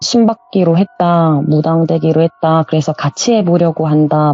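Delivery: ordinary talk, nothing marked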